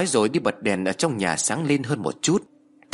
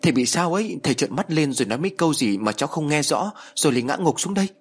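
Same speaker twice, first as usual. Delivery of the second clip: put-on frightened young woman reporting the collapse to the neighbour, pitched up; frightened stammer; 5 semitones higher than usual. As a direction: blurt it out in fright, voice up high. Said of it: "Cô An lắp bắp nói".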